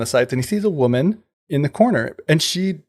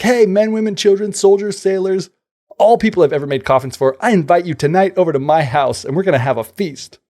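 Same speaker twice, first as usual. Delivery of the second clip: raised, higher voice calling to everyone; calling out aloud; 6 semitones higher than usual. Retold or imitated. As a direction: call the invitation out to the whole town. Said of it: "ran out and said, you know, aloud".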